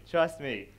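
usual speaking voice

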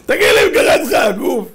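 high, loud put-on outcry; exasperated scolding. Exasperated shout at the man who chose parachuting, scolding.

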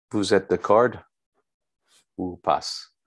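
mock American accent in French. Speaker teasing listeners after too long in the States, joking American accent. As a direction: put on a playful American accent. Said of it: "parler avec un accent américain".

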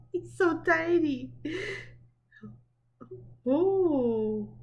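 high, loud gushing over a tiny dog. Real, not acted. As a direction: squeal it out with delight.

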